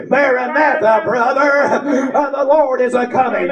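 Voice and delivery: a hint of a cheerful church brother; glad street greeting. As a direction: greet him warmly, laughing. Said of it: "And I come up".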